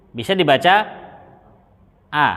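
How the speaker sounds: "dibaca a" with an open a sound; vowel a read clearly. Shown as a demonstration. Teacher spelling out "dibaca a" for the students. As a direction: say "a" as a wide open a. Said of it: "ini hamzahnya bisa dua bacaan".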